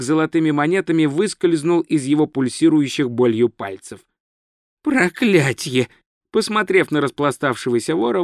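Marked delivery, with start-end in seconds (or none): 4.8-5.9 slow, drawn-out curse; exhaled curse. Acted. Wizard looks at the sprawled thief, slowly exhales a curse. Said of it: "выдохнул он".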